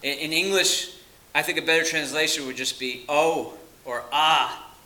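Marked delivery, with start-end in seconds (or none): 3.1-3.6 a short illustrative cry of "Oh"; demonstrated cry. Shown as a demonstration. Preacher translating woe for the congregation, as a cry. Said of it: "It's just a cry". 4.1-4.7 louder illustrative "Ah"; demonstrated cry. Shown as a demonstration. Preacher offering a translation of woe, as a cry. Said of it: "It's just a cry".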